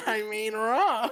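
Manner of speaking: slow, stretched imitation, ROB held long; comically elongated answer, falling on Rob; drawn-out mock quote. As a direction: drag out "Rob" for laughs. Repeats the coworker's line for laughs.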